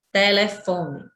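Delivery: telefone pronounced carefully with stressed fo; teacher demonstrating the strong fo in telefone; stress on penultimate syllable. Shown as a demonstration. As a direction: let fo carry the word telefone. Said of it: "fó é a tônica".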